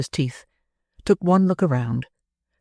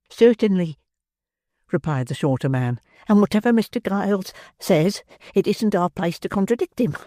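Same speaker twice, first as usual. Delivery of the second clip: higher, nervous deferential voice; frightened servant; 5 semitones higher than usual. Acted. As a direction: defer anxiously to the master. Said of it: "his teeth chattered in his head".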